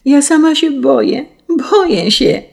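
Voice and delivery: put-on girl cries out in terror at the forest edge; frightened cry. A narrator's reading. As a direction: cry out in fear, clutching a skirt. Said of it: "krzyczała Cesia".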